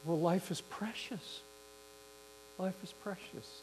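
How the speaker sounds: understated, tender reassurance; soft and gentle. Retold or imitated. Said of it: "kinda softly and gently".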